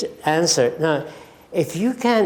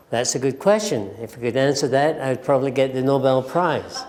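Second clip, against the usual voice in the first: humorous reply; 3 semitones lower than usual. Shown as a demonstration. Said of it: "you can use humor in responding".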